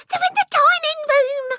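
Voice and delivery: very high, loud, strained alarm; panicked hiss. Acted. Mother locating the burglars for husband, panicked hiss. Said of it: "hissed the mother".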